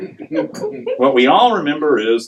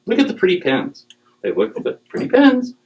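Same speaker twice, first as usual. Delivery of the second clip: mock delight; 11 semitones higher than usual.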